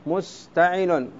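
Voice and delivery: مستعل stretched out slowly; slow demonstration. Shown as a demonstration. Teacher showing students the foot مستعل slowly. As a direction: draw out مستعل slowly for the class. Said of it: "حذفت الفاء تقول".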